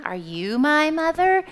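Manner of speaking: put-on baby bird's question. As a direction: ask the hen as a searching baby bird. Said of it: "he goes and asks a hen".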